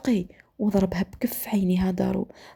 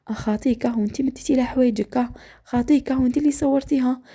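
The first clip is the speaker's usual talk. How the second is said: retold sarcastic echo, pitched higher; mocking accusation; 5 semitones higher than usual. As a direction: throw the denial back as an accusation. Husband throws her denial back mockingly.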